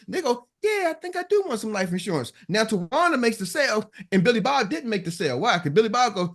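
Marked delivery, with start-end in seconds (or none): 0.6-2.3 high-pitched, lightly acted agreement; persuaded customer. Customer answering the saleswoman's pitch, persuaded, high voice. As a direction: play a customer talked into it, pitched up. Acts out customer won over.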